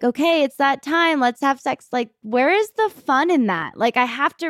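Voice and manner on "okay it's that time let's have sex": mechanical, businesslike robot voice. Retold or imitated. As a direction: say it like a robot on schedule.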